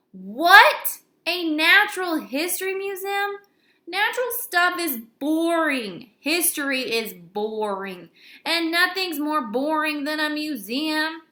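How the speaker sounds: loud, high disbelief then complaint; whiny shocked outburst; outraged shock. Acted. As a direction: react like a kid appalled. AJ's outraged reaction.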